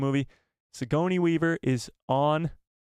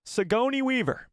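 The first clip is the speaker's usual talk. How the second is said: Sigourney Weaver impression; 10 semitones higher than usual. Shown as a demonstration. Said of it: "Maybe someday I'll get it right".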